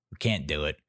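a hint of a tough crook with a conscience; robber voice. Robber finding a car seat, low mock voice.

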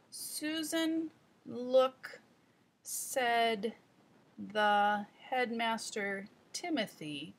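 put-on slow, halting child reading aloud; muddled child reading. Shown as a demonstration. Teacher demoing a child's muddled reading, slow and halting. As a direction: read it word by word like a confused beginner. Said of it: "The muddled up part sounds like this".

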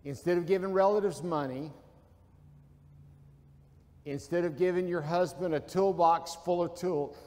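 deliberate, with long pauses between phrases; said slowly. Shown as a demonstration. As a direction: lay out each phrase slowly so it sinks in. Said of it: "I'm gonna say this slowly".

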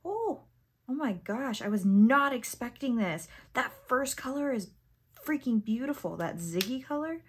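high "oh", then emphatic delight; really excited. Real, not acted. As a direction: gush over an unexpected find. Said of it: "like, really excited".

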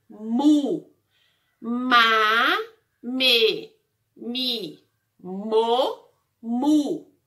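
slow spelling-out of each syllable, stretched vowels; syllable drill. Shown as a demonstration. Teacher drilling the M syllables for the class, slow syllable drill. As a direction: sound out each M syllable slowly and separately. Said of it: "Essas são as sílabas da letra M".

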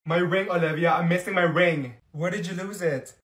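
normal talking voice

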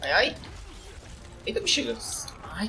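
high startled cries, then dismay; startled yelp. Real, not acted. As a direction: yelp as the character goes down. Dies suddenly in game. (grito de susto)

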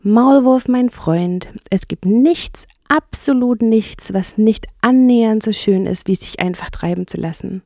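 dreamy, with lifted emphatic words; träumerisch. Acted. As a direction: savour it like a dreaming enthusiast. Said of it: "fuhr er träumerisch fort". (träumerisch schwärmend)

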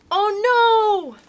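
high, loud oh no; mock alarm. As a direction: act shocked for the children. Teacher reacts to story.

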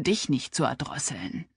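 low unvoiced threat; menacing whisper. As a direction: hiss it through clenched teeth. Threat through clenched teeth.

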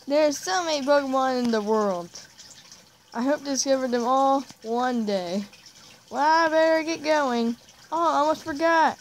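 lightly put-on cartoon hero; Ash Ketchum. Gamer reads trainer's dialogue, hammed-up Ash Ketchum voice. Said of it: "Ash, like, Ash Ketchum-like voice".

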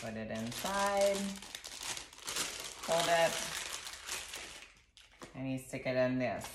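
ordinary talk

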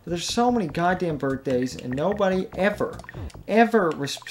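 exasperated rant building up; worked up. Real, not acted. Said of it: "I'm getting too worked up".

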